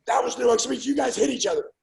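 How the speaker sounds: angry yelling. Retold or imitated. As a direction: scold the fighters for turning it into a real fight. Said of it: "starts yelling and screaming".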